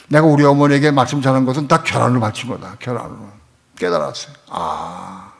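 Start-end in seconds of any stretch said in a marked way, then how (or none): 3.8-5.3 whispered realization. Real, not acted. Hushed moment of realization.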